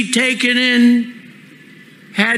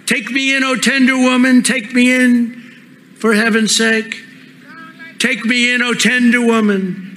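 pleading snake, pitched higher; sighing snake; 3 semitones higher than usual. Acted. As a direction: beg like a sly snake. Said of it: "sighed the vicious snake".

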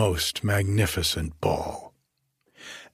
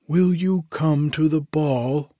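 shouted; 7 semitones higher than usual. A narrator's reading. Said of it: "the king shouted after her".

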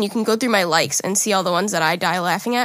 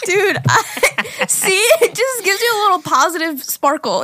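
laughing while talking; 9 semitones higher, slower than usual. Real, not acted. Still laughing after clip.

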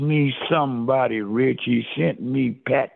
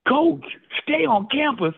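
very high, mocking squeal of the order; mock whiny echo; 13 semitones higher than usual. Player mocking his coach's order, very high whine.

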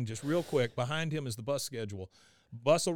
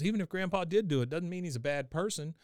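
lightly voiced boy, higher pitch; a hint of an earnest child arguing; Bobby; 5 semitones higher than usual. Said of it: "he goes".

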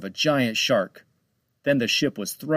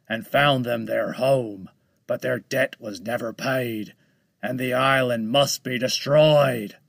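menacing shark voice. Acted. Shark tells his story.

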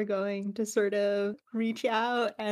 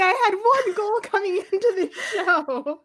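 betrayed and heartbroken; 12 semitones higher, 7 dB louder than usual. Real, not acted. Friend wails in betrayal.

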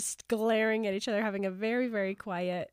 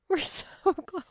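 excited; 7 semitones higher than usual. Real, not acted.

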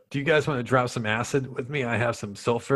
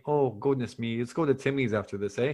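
sympathetic mock-Canadian; folksy cartoon Canadian; Canadian accent. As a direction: fuss politely in a Canadian accent. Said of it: "I'd like a Canadian one".

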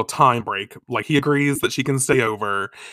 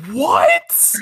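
loud, high-pitched mock disbelief; shocked what; 6 dB louder than usual. Mamoru told that Chibiusa loves him, shocked. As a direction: yelp it upward in hammed-up shock.

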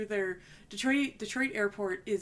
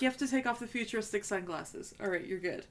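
put-on British accent; 3 dB quieter than usual. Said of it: "That's my British accent".

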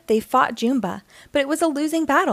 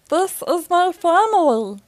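higher, louder alien creature proudly declaring; Stitch voice; 7 semitones higher, 5 dB louder than usual. Acted. Alien telling the Councilwoman, proud creature voice. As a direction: announce it like a small fierce alien.

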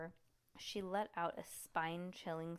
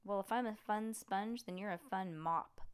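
yelling; 3 dB louder than usual. Acted. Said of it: "cupped her hands to yell at him".

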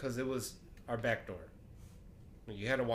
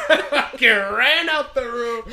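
loud, high-pitched panicked storytelling; frantic shouting; 12 semitones higher, 14 dB louder, slower than usual. Retold or imitated. Storyteller reliving fleeing the room, high excited shouting. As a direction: yell the escape, laughing.

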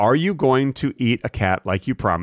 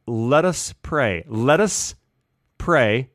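mock solemn prayer; slower than usual. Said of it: "and he says".

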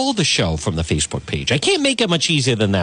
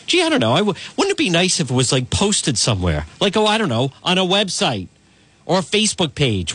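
sarcastic; 4 semitones higher than usual. Acted. Sarcastic imagined reply.

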